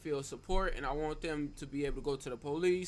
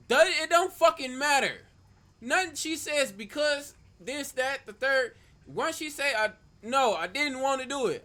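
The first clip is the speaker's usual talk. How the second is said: much higher and louder, yelling in outrage; furious rant; 6 semitones higher, 7 dB louder than usual. Real, not acted. Streamer yelling at chat that no means no, furious. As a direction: shout it down like it's non-negotiable. Streamer rants about consent.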